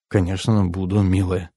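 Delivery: soft, low and tender; soothing reassurance. A narrator's reading. Man calming his worried lover before leaving, reassuringly. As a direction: reassure gently, dropping pitch and volume. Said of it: "чтобы успокоить".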